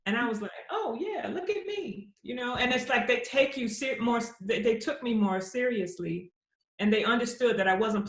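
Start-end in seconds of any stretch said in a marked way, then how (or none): 0.7-2.1 high, laughing proud reply; high playful laugh on the words. Retold or imitated. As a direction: giggle it out, tickled.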